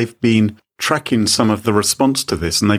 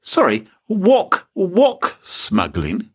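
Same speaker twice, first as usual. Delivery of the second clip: baffled; 10 semitones higher, slower than usual. Real, not acted. Baffled at wok smuggling.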